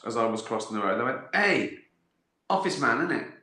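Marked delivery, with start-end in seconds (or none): 1.3-3.3 lightly mocked lad calling out, pitched up; mimicked teenager. Teenagers on bikes to the office man, mimicked cheeky hail. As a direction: imitate a kid hailing someone. Acting teenagers hailing him on street.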